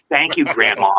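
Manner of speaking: dutiful, emotionless thanks; mock-obedient, with no enthusiasm; grudging child's thanks. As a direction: mimic a kid made to thank Grandma. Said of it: "Billy, thank your grandmother for the sweater".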